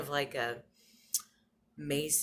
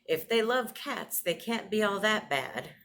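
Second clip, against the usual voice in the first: a gentle imitation of grandma's saying; quoting grandma; 6 semitones higher, 3 dB louder than usual. Granddaughter quoting her grandma's saying, fond and higher. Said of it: "She used to say".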